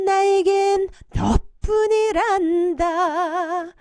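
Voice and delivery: 너뿐이란다 with 너 cut short and punched, staccato-like; stress on 너. Shown as a demonstration. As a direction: hit 너 in 너뿐이란다 short and hard. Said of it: "요 정도도 괜찮겠네요".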